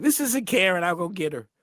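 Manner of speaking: put-on high, loud girlish voice of the young boy; sounding like his sister. A young boy answering the phone to callers, sounding like his big sister. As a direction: pitch it way up like a girl answering the phone. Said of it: "I sounded like my sister".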